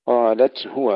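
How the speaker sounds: هو with a distinct هاء after قالت; clear ha. Shown as a demonstration. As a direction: voice the هاء of هو apart from the تاء. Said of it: "إظهار الهاء". (إظهار الهاء في قالت هو)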